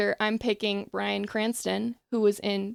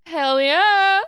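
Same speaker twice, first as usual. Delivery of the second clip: excited cheer; 7 semitones higher, 7 dB louder than usual. Real, not acted. Cheering a pun.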